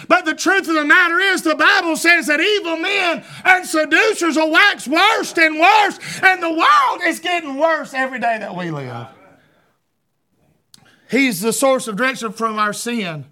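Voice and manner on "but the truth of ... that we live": fiery preaching. Real, not acted. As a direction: preach it out to the congregation. Preacher builds to a warning.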